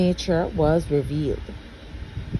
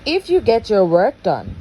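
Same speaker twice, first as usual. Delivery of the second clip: sly condition; 3 semitones higher than usual. Acted. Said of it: "with a sly smile".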